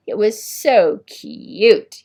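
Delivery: high, loud, sneering; mock him like a playground bully; big boy jeering at Oliver in a sneering voice. A narrator's reading. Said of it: "he jeered".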